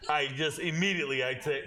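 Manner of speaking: ordinary delivery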